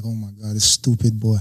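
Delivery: an exasperated friend watching him blow the apartment; exasperated groan. Retold or imitated. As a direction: imitate a man holding his head in despair. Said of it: "Saeed just held his head like".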